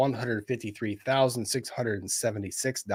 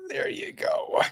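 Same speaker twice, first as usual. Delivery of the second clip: excited; 3 dB quieter than usual. Real, not acted. Showing the calculator screen.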